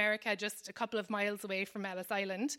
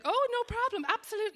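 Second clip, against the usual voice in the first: forced cheerfulness; 11 semitones higher than usual. Pretend. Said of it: "You have to be like".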